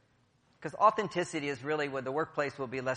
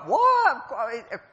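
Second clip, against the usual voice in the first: puzzled what; 10 semitones higher, 9 dB louder than usual. Retold or imitated. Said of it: "Now you all go".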